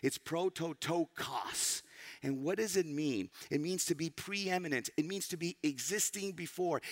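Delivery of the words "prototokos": "prototokos" sounded out slowly; "prototokos" as a carefully spoken Greek word; Greek pronunciation. Shown as a demonstration. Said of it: "I hope I pronounce it right".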